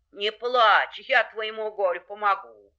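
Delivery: mid-pitched, firm animal helper; reassuring wolf. Acted. Wolf promises the hare help, reassuring. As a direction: comfort firmly, in an even voice.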